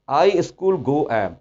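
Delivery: each word slowly spaced out; I school go am, dragged word by word; mock word-for-word English. Shown as a demonstration. Teacher mocks literal translation slowly. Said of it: "मज़ाक खेज translation".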